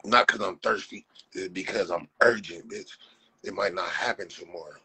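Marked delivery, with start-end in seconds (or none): none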